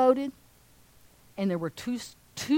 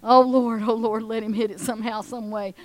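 mock prayer. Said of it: "they're praying now".

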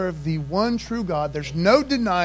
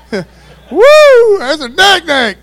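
high, whooping shout of amazement; hammed-up yell, far above normal pitch; mock alarm; 11 semitones higher, 15 dB louder, much slower than usual. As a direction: holler it like you've spotted a monster. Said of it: "big monster mammoth snake that's taking up".

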